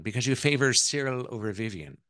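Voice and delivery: put-on pointed question in an Irish accent. Mother-in-law probes which son is favored, Irish accent. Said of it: "that's my Irish accent".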